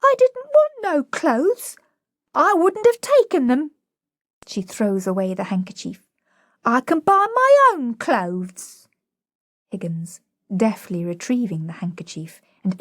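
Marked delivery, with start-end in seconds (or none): 0.0-8.9 higher and louder, close to crying; almost in tears. A narrator's reading. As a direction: fight back the tears as the words come out. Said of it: "almost in tears".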